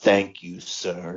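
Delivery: peculiar, unnatural, strange-sounding phrasing. Retelling how a character thanked someone: imitating a strange-sounding delivery. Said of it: "He said it in a strange way".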